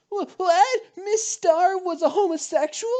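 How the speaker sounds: high, loud incredulous squeal; shocked disbelief. Acted. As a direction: gasp it out in total disbelief.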